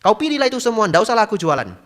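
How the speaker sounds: high, loud Medan scolding; angry market seller. Retold or imitated. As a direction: snap at the picky buyer. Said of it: "bahasa sehari-hari". (penjual cabai marah dengan logat Medan)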